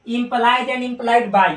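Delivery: very slow, each word spelled out for students; slow read-aloud. Shown as a demonstration. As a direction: drag it out word by word so the class can copy. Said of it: "यानी इसको पढ़ेंगे implies".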